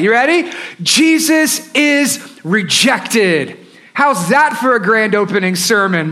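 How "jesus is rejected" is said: drawn out, each word weighed; slow dramatic title. Shown as a demonstration. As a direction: announce the title slowly and gravely. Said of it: "here's the sermon title for us today".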